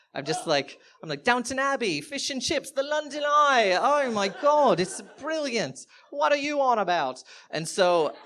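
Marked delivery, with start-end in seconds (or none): 1.2-7.2 high, loud, hammed-up British accent; British greatest hits. Partygoer showing off to admirers in an over-the-top British accent. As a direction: belt out stretched, cocky British catchphrases. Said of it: "pulling out my British greatest hits".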